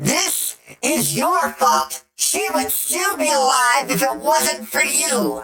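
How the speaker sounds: very high, very loud, disguised voice-modifier voice. Narrating a story, voicing a man who speaks through a voice modifier. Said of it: "he has a voice modifier".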